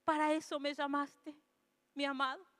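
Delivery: susurro casi interior, mucho más suave; para adentro. Retold or imitated. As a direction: dilo para ti, sin voz hacia afuera. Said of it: "dentro mío digo". (pensamiento íntimo en voz muy baja)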